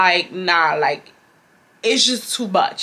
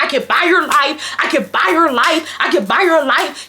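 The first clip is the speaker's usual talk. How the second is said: a light imitation of a haughty customer, higher; mock the rich lady bragging, a touch higher; imitating the lady; 6 semitones higher than usual. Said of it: "that's dead ass how she said it".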